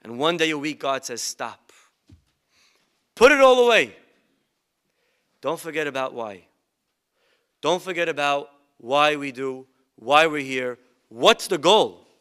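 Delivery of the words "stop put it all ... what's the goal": God's command. Retold or imitated. God commanding rest.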